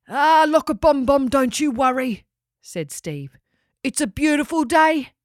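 cheery laid-back pelican. Acted. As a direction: cheer your friend up breezily. Steve the pelican's cheery speech.

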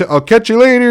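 high-pitched mock movie catchphrase; movie-line impression. Podcaster signing off to listeners, high playful movie-quote voice. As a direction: toss out a film catchphrase in a high voice.

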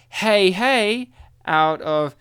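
loud drawn-out hey call; slow catchphrase rating; Fat Albert hey. Pretend.

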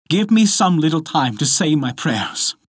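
high, lightly voiced plea; pleading wife. A narrator's reading. Wife begging time to pray, pleading.

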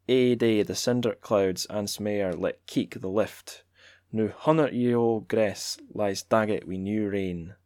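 measured, declaiming read of a Scots poem; poetry reading in Scots. Acted. Reading Scots poetry to listeners, lightly declaimed. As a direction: read the Scots verse aloud with relish. Reads Scots translation aloud.

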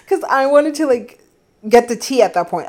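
can't wait to hear the gossip; excited. Real, not acted. Eager for gossip.

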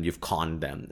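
normal talking voice

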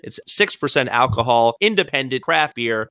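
drawn-out promotional read; beer label read. Acted. Host presenting tonight's beer, mock ad read. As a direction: read the label like an ad, stretching key words.

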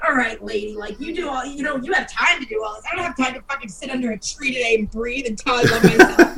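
fed-up mock outburst, half laughing; exasperated rant. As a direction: vent at the lady with a laugh. Ranting at the author.

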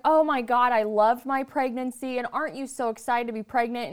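imitated gushing mother-in-law; lightly hammed-up delight, easing off at the end; mock excitement. Mother-in-law to pregnant woman on the porch, gushing in imitation. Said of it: "she's so excited".

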